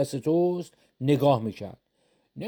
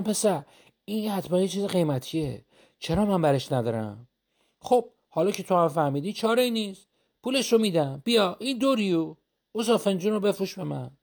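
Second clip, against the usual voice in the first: lightly higher, wheedling peddler voice; scheming peddler; 5 semitones higher than usual. Acted. Oil seller coaxing the shopkeeper, lightly higher and wheedling. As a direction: coax the cup out of him, pitched up a bit.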